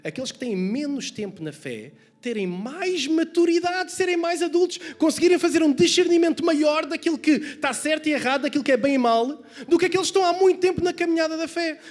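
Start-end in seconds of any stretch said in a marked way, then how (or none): 2.2-11.8 high, loud, driving sermon delivery; raised-voice preacher in full flow; impassioned preaching. Real, not acted. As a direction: press the rebuke home to the congregation.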